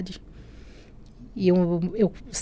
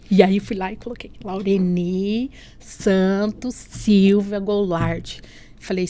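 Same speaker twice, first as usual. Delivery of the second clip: usual speaking voice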